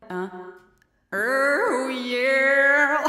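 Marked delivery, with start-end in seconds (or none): 1.1-3.1 helium voice. Real, not acted. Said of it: "change ma voix".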